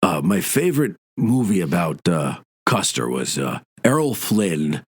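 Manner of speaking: a hint of a deep Illinois drawl; Bruce Boxleitner impression. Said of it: "he's got a really deep voice".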